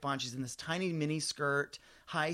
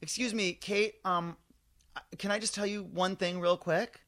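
really nice; 3 semitones higher than usual. Retold or imitated. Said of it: "I'm really nice the way I say it".

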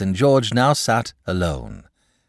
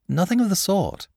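emphatic; 12 semitones higher than usual. A narrator's reading. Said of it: "said the boy".

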